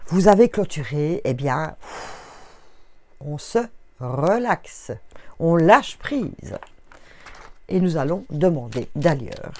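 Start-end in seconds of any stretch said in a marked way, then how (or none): 3.2-6.6 drawn-out calm invitation to relax; slow soothing guidance. Acted. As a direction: ease them into letting go. Guiding listeners to let go. (voix lente et apaisante)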